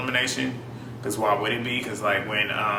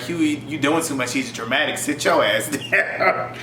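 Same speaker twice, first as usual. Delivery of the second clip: a hint of Esther's accent, slowing on "Sit your ass down"; imitating Esther's accent. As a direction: lightly mimic Esther scolding Huey. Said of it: "both of their accents saying it like that".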